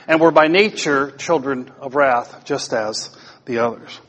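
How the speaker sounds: measured, solemn reading of Ephesians; scripture reading. Acted. Pastor reading the Bible passage to the church, solemn. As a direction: read the passage with reverence.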